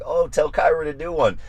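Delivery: high-pitched mock request; imitating viewers. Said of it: "you guys who are like".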